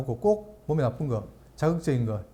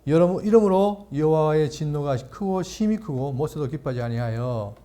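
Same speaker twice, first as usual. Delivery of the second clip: measured, solemn Bible reading; scripture reading. Acted. Pastor reading Numbers to the congregation, solemn reading. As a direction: read the verse slowly and deliberately.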